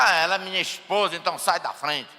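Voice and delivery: dismissive husband. Shown as a demonstration. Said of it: "Porque agora".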